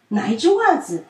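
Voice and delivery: curious little friend; child asking. A narrator's reading. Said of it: "淘淘问". (好奇的孩子声)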